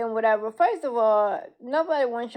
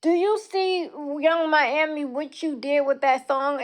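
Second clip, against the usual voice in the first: raised, indignant call-out; 3 semitones higher than usual. Real, not acted. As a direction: confront her, voice raised. Calling out a rapper.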